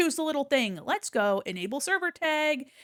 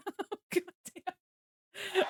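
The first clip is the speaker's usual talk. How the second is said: laughing; 5 semitones higher, 7 dB quieter, much slower than usual. Real, not acted. Laughing at the boosts.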